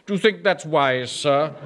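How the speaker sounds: lightly mimicking a superior drawl, "Do you think that's wise" barely shifted; a hint of sneering mimicry of the clerk; mildly mocking his subordinate's lofty tone; mock supercilious voice. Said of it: "in that supercilious voice".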